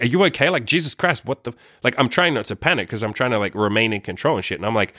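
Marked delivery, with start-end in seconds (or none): 0.0-1.6 alarmed. Retold or imitated.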